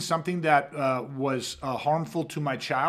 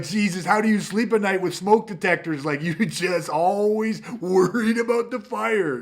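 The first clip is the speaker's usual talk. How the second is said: mock disbelief; 5 semitones higher, 5 dB louder than usual. Mocking critic continues.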